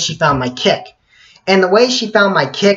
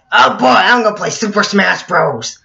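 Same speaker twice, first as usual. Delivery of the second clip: higher, giddy mock glee; hammed-up excitement; 6 semitones higher, 4 dB louder than usual. Home on Friday to play games, hammed-up excitement. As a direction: ham up the thrill of game night.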